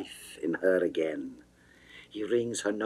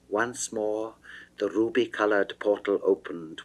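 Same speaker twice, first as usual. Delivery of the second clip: plain reading voice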